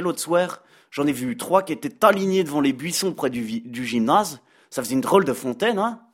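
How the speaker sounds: put-on a light, joking Belgian accent; mocking chronicle in a Belgian accent; Brad Pitt's Belgian accent. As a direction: play a Belgian columnist teasing his hosts in his Belgian accent. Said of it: "comme vous pouvez l'entendre à mon accent".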